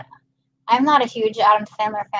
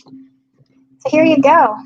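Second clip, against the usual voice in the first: slow, drawn-out "here you go"; a slow, drawn-out, higher mock offering; mock gift handover; 5 semitones higher, 5 dB louder, much slower than usual. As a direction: hand it over slowly and with a flourish. Handing off regifted socks.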